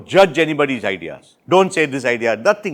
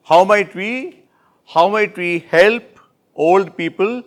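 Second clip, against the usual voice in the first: slow model phrasing; 3 semitones higher, slower than usual. Shown as a demonstration. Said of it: "to come out from the depression?".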